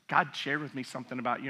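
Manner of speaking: hushed, quick, mock-solemn mom. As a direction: lean in like a mother with a message from God. Mom's solemn announcement.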